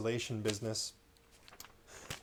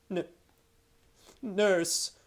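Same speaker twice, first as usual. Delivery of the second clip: faltering; 8 semitones higher, 4 dB louder than usual. Acted. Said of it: "faltered Caspian".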